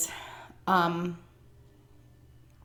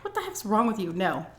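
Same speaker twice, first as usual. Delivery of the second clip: high indignant burst of denial; a touch of outraged disbelief; squeaky mock outrage; shocked denial; 4 semitones higher than usual. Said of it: "I said".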